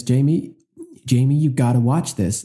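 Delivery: a hammed-up Canadian accent, calling out to a friend; lightly put-on Canadian accent, pressing him to watch; horrible Canadian accent. Imitating a friend urging him, in a bad Canadian accent. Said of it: "That's a horrible Canadian accent".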